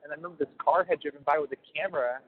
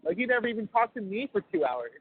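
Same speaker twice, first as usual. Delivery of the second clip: higher-pitched imitated incredulity; mock indignant mom; 7 semitones higher than usual. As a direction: imitate a put-out mother questioning her son. Retelling his own mom's indignant questioning.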